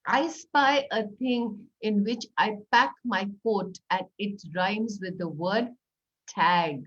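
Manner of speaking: slow, playful clue; riddle voice. Shown as a demonstration. Teacher posing another rhyming riddle, slow. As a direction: hold back the last word. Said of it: "Do an "I spy" riddle".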